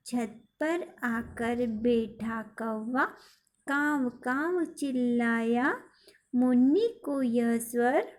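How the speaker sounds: put-on slow, sing-song reading of a children's poem; poem recitation. Shown as a demonstration. Teacher reciting the poem to her pupils, slow and measured. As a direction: recite each line slowly for the class to copy.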